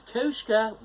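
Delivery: high, loud call. Acted. Dog calls the cat over, high loud call. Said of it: "the dog called the cat over".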